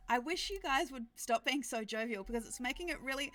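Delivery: high, loud, laughing protest; guilty but trying not to laugh; fighting a smile. Real, not acted. Game master scolding jovial players, fighting a smile. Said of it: "hard not to smile".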